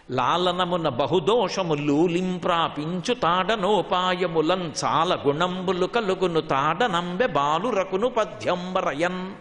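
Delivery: slow, measured Telugu verse recital; slow classical Telugu poem reading; padyam recitation. Acted.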